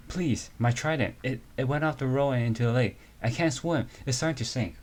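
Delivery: lightly voiced caller who can't swim; panicked caller. Caller in trouble on the phone.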